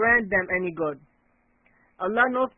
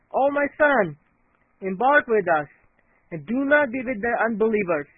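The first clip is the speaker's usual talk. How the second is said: calling out. Acted. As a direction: raise the voice to reach him. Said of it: "Nuh called out to his son".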